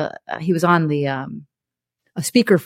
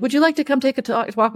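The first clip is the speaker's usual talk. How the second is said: lightly mocking, sing-song higher invitation; mock doctor; 7 semitones higher, faster than usual. Mother mocking the doctor's little-room invite, light mock. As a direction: imitate the polite doctor, a bit higher. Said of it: "When they'd be like".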